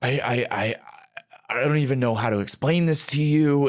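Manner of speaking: breathless, stammering panic; out of breath, stumbling words. Retold or imitated. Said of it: "I'm hyperventilating at this point".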